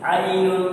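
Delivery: "आइनुन" with a light, open first vowel; thin letter. Shown as a demonstration. Teacher showing ain is to be kept thin, light "आइनुन". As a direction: keep "आइनुन" thin, mouth unrounded. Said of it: "ये बारीक करना।".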